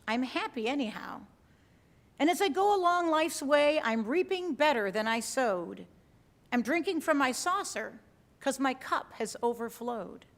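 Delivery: measured verse reading with paused lines; poem reading. Acted. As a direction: recite it line by line, lifting each opening. Reads a poem aloud.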